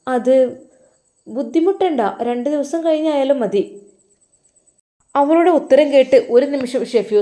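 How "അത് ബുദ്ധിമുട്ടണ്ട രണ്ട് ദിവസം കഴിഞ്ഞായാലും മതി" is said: put-on higher, curious young wife; wife asking. Wife asks husband why he goes to madrasa, higher voice. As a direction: ask him sweetly, a pitch up. Wife's voice in story.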